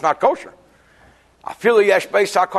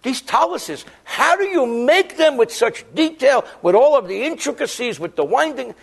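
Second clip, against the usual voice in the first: committee man; 5 semitones higher than usual. Retold or imitated. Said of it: "The guy in the committee says".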